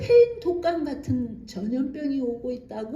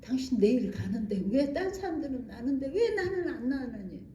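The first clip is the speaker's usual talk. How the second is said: softer, half-laughing complaint; patient asking why she alone wasn't healed, softly; imitating the patient; 4 dB quieter than usual. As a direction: mimic her plaintive question. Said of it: "뭐라 그러니?".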